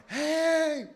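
high startled yell from the water; sudden high yell for help; hollering. Retold or imitated. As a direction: shout for help. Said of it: "I hollered".

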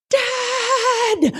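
high cry for dad; girl in the water crying out for her father; desperate call. Retold or imitated. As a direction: call out as the boat drifts away. Surfacing alone, calling dad.

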